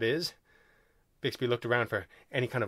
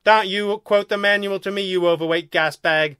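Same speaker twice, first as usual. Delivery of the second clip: raised, loud indignant insult; 6 semitones higher, 6 dB louder than usual. A narrator's reading. Second alien refusing to hear the manual, indignant. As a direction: snap back loud and higher.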